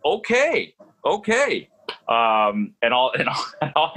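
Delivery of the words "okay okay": meek okay. Retold or imitated. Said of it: "And I'm like".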